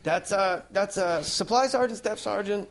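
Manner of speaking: lightly cartoonish impression of a military man; Mister Krabs-like voice. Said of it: "Maybe he sounds like Mister Krabs".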